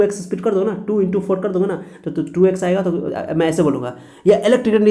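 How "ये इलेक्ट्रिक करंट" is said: sped-up playback. Shown as a demonstration. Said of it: "ऐसे fast चलेगा".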